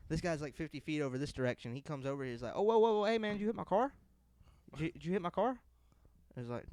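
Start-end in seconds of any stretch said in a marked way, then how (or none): 2.5-5.6 higher, louder alarmed accusation; imitating the stranger. Stranger in the lot accusing them of hitting his car, higher and louder. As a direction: act out the guy accusing.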